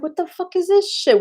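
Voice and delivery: put-on a kid scoffing at a doll; mock kid disgust. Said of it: "I was like".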